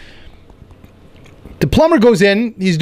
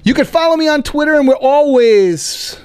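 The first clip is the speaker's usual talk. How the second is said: put-on voice; 9 semitones higher than usual. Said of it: "I always do that voice".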